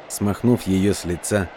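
plain reading voice

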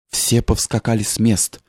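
ordinary delivery, nothing marked

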